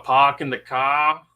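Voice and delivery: mock Boston accent, dropped Rs. Co-host teasing about the Boston Terrier, mock Boston accent. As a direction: put on a light Boston accent. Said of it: "Does he have an accent?".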